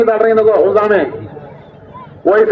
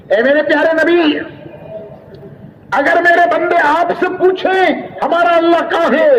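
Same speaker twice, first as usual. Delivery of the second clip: divine address; 7 semitones higher than usual. Acted. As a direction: speak as God addressing His prophet. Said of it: "अपने प्यारे नबी से अल्लाह कहता है".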